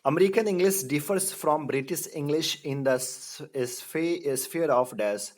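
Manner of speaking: slow, deliberate question reading; quiz reading. Shown as a demonstration. Teacher reading a quiz question slowly to the class. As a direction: spell out the question slowly for students.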